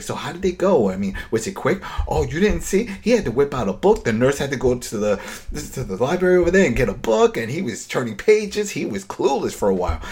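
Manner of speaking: giddy mock disbelief, rushing the middle; mock horrified retelling.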